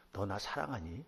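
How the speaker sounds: soft, gentle asking of love; tender question. Acted. Jesus gently asks Peter, softly and tenderly. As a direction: ask it quietly, full of love. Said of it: "이렇게 물으셨어요".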